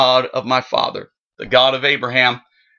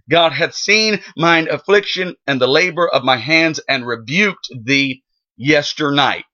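measured, solemn Bible reading from the King James text; scripture reading. Acted. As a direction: read the verses out like a preacher at the pulpit. Preacher reads Genesis passage aloud.

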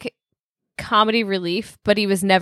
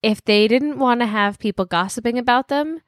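mock moralizing. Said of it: "Shaylin's high horse moment".

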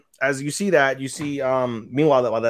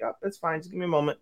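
soft, flustered little voice; acted embarrassment; 3 semitones higher, 9 dB quieter, faster than usual. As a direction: quietly ask to be left a moment, play-acted. Acting embarrassed girl asking for time.

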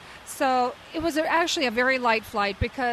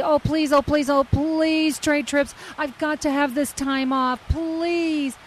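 begging; 3 semitones higher than usual. Retold or imitated. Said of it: "begging me".

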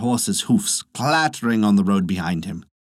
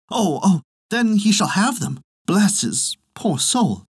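put-on much higher, slow old woman, tender; doting old wife; 8 semitones higher, slower than usual. Old wife agrees to send money.

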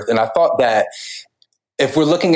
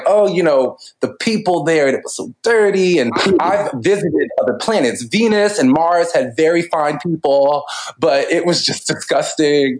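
put-on Valley Girl voice; 4 semitones higher than usual. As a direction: play a fussy alien tourist, Valley Girl style. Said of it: "in one of these Valley Girl voices".

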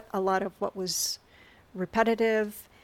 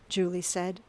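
narrator voice; 4 dB quieter than usual. A narrator's reading. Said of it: "In my narrator voice".

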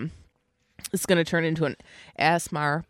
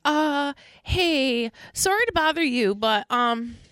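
frantic; 7 semitones higher than usual. Retold or imitated. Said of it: "my friend is frantic".

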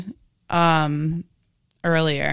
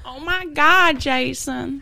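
falsetto mock gush, much higher; mock gushing girl; 8 semitones higher, slower than usual. Friend joins the falsetto mockery, squealing high. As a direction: squeal the name like an adoring fan.

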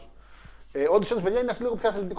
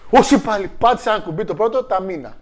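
mock dismay; 4 semitones higher, 6 dB louder than usual. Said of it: "και λέει".

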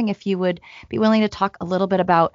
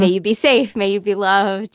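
loving and motherly; 3 semitones higher, 4 dB louder than usual. Pretend. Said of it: "say to ourselves something loving and motherly".

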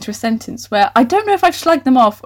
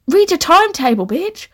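sassy scolding; 7 semitones higher than usual. Real, not acted. Scolding the character.

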